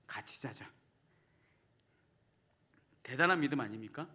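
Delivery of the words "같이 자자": put-on slow, soft little-boy voice; imitating son. Father imitating his scolded son asking to sleep together, soft and slow. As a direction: gently mimic a child pleading. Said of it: "아이가 뭐라고 얘기하냐?".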